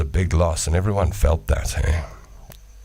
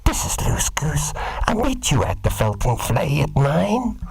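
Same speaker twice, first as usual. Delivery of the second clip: slow, breathy, higher sultry radio call; 8 semitones higher than usual. Retold or imitated. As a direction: purr it over the CB slowly. CB radio dating call role-play.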